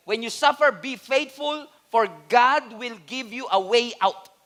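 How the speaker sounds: "when you suffer" restarted with firmer emphasis on "suffer", then slowing to the end; restarted scripture reading. Shown as a demonstration. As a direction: restart the verse and land "suffer" harder. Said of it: "ang sabi ng First Corinthians".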